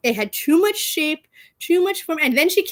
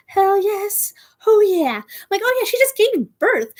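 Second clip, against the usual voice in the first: higher, gushing hype about a singer; pitched-up fan excitement; excited; 9 semitones higher than usual. Real, not acted. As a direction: squeal it like a fan who can't wait. Hyped for a singer's show.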